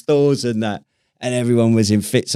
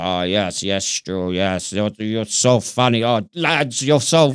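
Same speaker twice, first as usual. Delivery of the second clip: imitating Humps; slower than usual. Recalling odd mate Humps talking to the lads, lightly mimicked. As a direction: lightly mimic a simple eager lad. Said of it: "And he'd be like".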